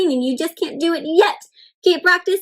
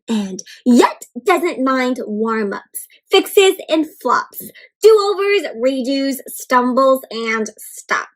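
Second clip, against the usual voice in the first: put-on reading to children; much slower than usual. Reads the picture book aloud.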